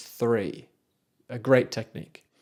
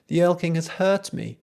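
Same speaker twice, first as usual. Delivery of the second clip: put-on terrified boy; 5 semitones higher than usual. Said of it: "the boy says".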